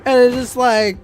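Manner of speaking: loud, high exasperated rant. Real, not acted. Rant about the host.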